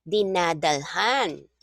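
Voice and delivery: Dinadalhan said slowly, each syllable spaced; teacher modelling Dinadalhan slowly; slow model word. Shown as a demonstration. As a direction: spell Dinadalhan out with your voice. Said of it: "models the word".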